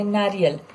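नारियल with a quick, short रि. Shown as a demonstration. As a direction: say नारियल without stretching the i. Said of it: "not नारियल".

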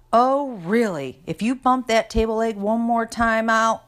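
high, heated sibling threat; threatening. A narrator's reading. Lucinda warns her brother about bumping the table, threatening. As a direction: stretch the opener, then warn him sharply.

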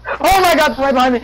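high, loud frightened shriek; terrified scream. Real, not acted. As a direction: scream in terror. Chased by monster, screaming.

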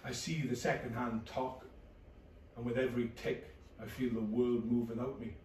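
flat depressed narration. Acted. Low depressed inner narration.

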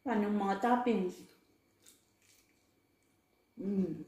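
muffled chewing speech; talking while chewing. Real, not acted. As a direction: mouth full of food. Seen 1: Speaker bites and chews pizza slices throughout the labelled words.

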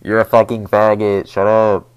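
loud insulting yell; shouting. Real, not acted. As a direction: yell it at them. Yelling at another player.

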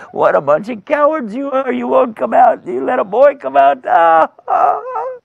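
high-pitched mocking taunt; hammed-up gloating giant with a laugh; jeering giant. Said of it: "here's this giant out there laughing and cackling".

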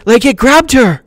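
high, breathless whisper; excited whisper. Acted. Kids gossip about Nancy, a high whisper. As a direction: whisper it in shocked delight. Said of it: "Some of the kids were whispering".

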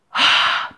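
voiceless puff of air; exhaled breath. Shown as a demonstration. Showing a crying baby breathing out, voiceless exhale. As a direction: push the breath out audibly. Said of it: "뱉고 있는데".

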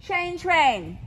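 loud, spaced-out test call. Real, not acted. Caller to rider on letters to follow, calling out. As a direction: project each letter to the rider.

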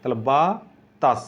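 বাতাস said as বা, তাস; syllable split. Shown as a demonstration. Teacher breaking বাতাস for students. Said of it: "বাতাসকে ভাঙো".

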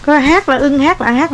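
mom loudly scolding, half laughing; mẹ la lớn; exasperated loud. Real, not acted. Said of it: "Đang hát mà ai chơi kiểu đó?".

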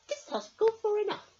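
put-on little girl putting a stop to the rain; firm little girl. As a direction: put your foot down. Emily gets firm.

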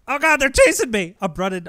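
hammed-up fright, high and squeaky at the peak; over-the-top fake panic while running; mock scared. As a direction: play the helpless victim being chased. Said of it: "I'm scared".

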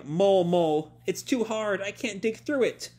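high, whiny little mole voice; small high voice of an entranced mole; hypnotized mole. Retold or imitated. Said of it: "Pino keeps going".

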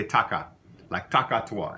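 taka with a flat open a, no nasal; Louisiana taka. Shown as a demonstration. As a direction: say taka, not tonka. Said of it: "We would say".

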